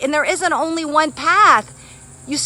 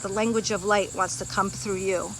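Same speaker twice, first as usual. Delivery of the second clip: guided meditation; 3 semitones lower, 11 dB quieter than usual. Acted. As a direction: breathe them gently into calm. Leads a breathing meditation.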